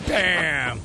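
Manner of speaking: punchy, loud "Bam!"; loud exclamation. Real, not acted. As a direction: punctuate the exit with a loud exclamation. Exclaims as coach walks off.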